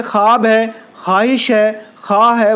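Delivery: "خواب، خواہش، خواہ" said khaab, khaahish, khaah; silent waw. Shown as a demonstration. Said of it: "جو لکھا جائے مگر پڑھا نہ جائے".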